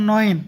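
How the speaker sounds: নয়েন said as German "neun"; German pronunciation. Shown as a demonstration. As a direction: teach the German number নয়েন clearly. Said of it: "এটাকে বলবো". (নয়েন, German উচ্চারণে)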